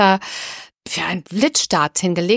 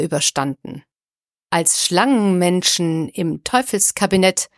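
poem recitation. Acted. Recites poem as episode opener.

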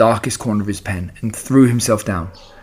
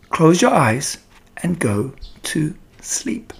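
slow, breathless whispered lullaby; soothing whisper; 6 semitones higher, slower than usual. Acted. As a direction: hush him off to sleep. Charlotte lulls Wilbur to sleep.

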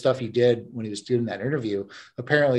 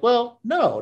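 mock boyfriend; 11 semitones higher, 5 dB louder than usual. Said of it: "And he's like".

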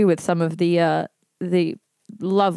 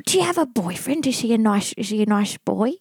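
put-on old lady voice. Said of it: "pretend to be Luna".

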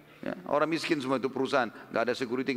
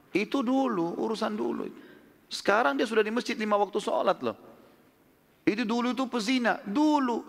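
higher-pitched, insistent preaching; fervent preaching; 8 semitones higher than usual. Acted. Preacher urging the congregation not to judge the past, pitch raised. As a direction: push the point home, pitch raised. Preacher presses point on repentance.

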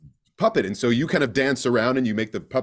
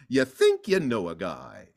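slower, closer to the film delivery; expected Timon line. Shown as a demonstration. Actor shows the line the directors wanted, slow familiar delivery. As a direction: lean into the familiar punchline, slowly. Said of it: "they want, something close to it".

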